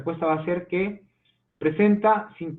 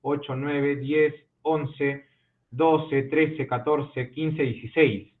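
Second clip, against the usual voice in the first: slow counting; much slower than usual. Shown as a demonstration. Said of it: "Uno, dos".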